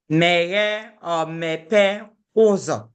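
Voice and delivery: slow, careful "Meye or mepe ozo"; slow teaching model. Shown as a demonstration. Teacher models the door phrase for learners, slow and careful. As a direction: spell out each Igbo word slowly. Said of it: "Ozo means door".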